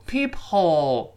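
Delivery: PEEPHOLE with HOLE's H fully sounded; uncomfortably kept H. Shown as a demonstration. Teacher showing the awkward reading, H forced. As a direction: force a clear H after PEEP. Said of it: "就非常难受".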